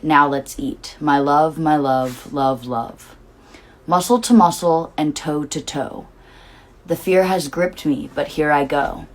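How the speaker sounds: slow, rhythmic poem reading; lyric reading. Acted. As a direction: read the lyrics like a poem, savoring each line. Reads song lyrics aloud.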